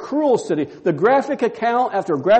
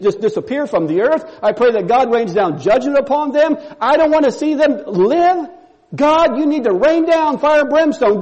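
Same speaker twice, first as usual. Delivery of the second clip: higher, harsh judgmental rant; uncaring, judgmental; 5 semitones higher than usual. Acted. Preacher voicing Jonah wishing judgment on Nineveh, harsh and uncaring. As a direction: sneer at the city, wishing it gone. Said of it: "Apathetic, unconcerned, very judgmental".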